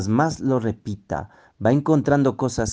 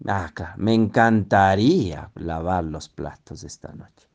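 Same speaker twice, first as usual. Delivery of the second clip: sarcastic; 2 semitones lower than usual. Shown as a demonstration. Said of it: "Entonces, sarcasmo".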